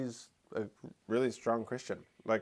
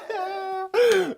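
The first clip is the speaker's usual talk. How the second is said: high, loud fake crying; hammed-up wail of a British kid; mock child wail; 9 dB louder than usual.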